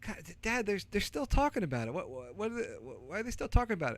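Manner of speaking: put-on a child baffled the radio won't stop; son's bewildered question. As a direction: play the puzzled little boy asking Dad. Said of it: "And he goes".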